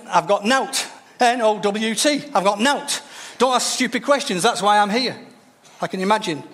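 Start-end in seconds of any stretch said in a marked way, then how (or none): 0.1-0.9 put-on a light Yorkshire accent, irritated. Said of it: "If she had a Yorkshire accent". 1.2-2.2 N O W T spelled slowly, letter by letter. Shown as a demonstration. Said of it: "spelling dialect word". 2.3-5.2 put-on a light Yorkshire accent, irritated. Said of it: "If she had a Yorkshire accent".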